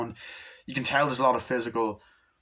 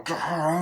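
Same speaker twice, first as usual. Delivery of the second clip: higher-pitched "grrr" noise; imitated growl; 5 semitones higher than usual. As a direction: mimic a growl from the film.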